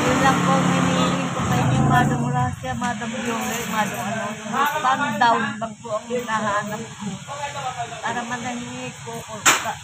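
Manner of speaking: high, loud, begging plea to donors; pleading appeal. Real, not acted. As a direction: cry out for help, raising the voice. Beggar pleads to online donors. (malakas at mataas na pagmamakaawa)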